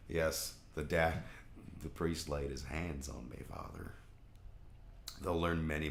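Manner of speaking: lightly voiced Southern preacher; mock Southern Baptist. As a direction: give mock-pious advice in a mild Southern accent. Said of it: "you enjoy my accents".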